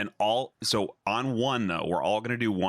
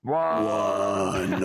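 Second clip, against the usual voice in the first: ogre voice; 4 dB louder than usual. Real, not acted. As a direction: bellow it like a dumb ogre. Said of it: "do our ogre voice one".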